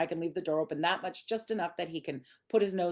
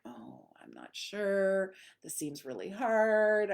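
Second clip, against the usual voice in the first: slow, unsure, voicing the dog; hesitant dog voice; slower than usual. Trainer voicing her hesitant dog, slow and unsure. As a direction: drag it out like a dog that doubts itself.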